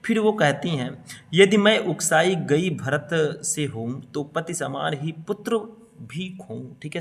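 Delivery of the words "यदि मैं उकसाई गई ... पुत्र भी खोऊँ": slow verse reading, softening at the end; poem recitation. Acted. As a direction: recite slowly, pausing before the last words. Recites verse before explaining it. (धीमा, ठहर-ठहर कर कविता पाठ)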